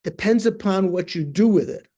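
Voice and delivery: stern admonishment, acted out. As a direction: replay the teacher's firm scolding, pitch lifted. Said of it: "very stern".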